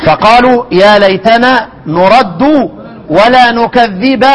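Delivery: slow drawn-out tajweed chant; Quranic recitation. Shown as a demonstration. Teacher reciting the verse for students, slow drawn chant. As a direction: stretch each word like a reciter.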